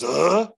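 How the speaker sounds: loud questioning grunt; baffled grunt. Retold or imitated. Demon hears the exorcist's threat, loud baffled grunt. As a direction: let out a startled "uh". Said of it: "And she goes".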